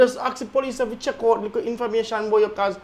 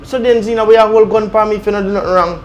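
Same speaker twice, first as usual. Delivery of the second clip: desperate protest; 9 dB louder than usual. Acted. Toby argues back under threat.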